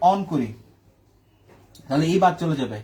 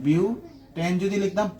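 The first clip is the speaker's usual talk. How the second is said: drawn out slowly, word by word; slow teacher repeat of বিউটেন যদি লিখতাম; slow emphatic repeat; much slower than usual. Shown as a demonstration. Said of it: "বিউটান কেন লিখতেছি বারবার?".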